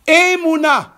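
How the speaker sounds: loud, high-pitched preacher's proclamation; prédication exaltée. Real, not acted. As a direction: proclaim each word forcefully to the congregation. Preaches at full force. (prêche à pleine voix, exalté)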